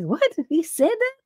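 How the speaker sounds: high, stunned double take on the overheard line; shocked disbelief. Retold or imitated. Narrator retelling her own reaction to the guy's line, shocked and high. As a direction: gasp it out like you can't believe your ears.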